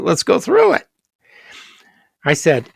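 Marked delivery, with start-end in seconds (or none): 0.0-0.9 emphatic repeat. Retold or imitated. Teacher repeating to puzzled class.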